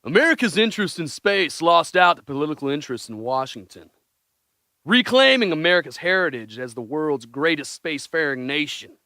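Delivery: reading a Trump speech in a put-on presidential accent; hammed-up Trump impression, grand and earnest; mock Trump accent. Reading Trump's space speech to the guys, in mock Trump accent. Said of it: "Did he say it in that accent?".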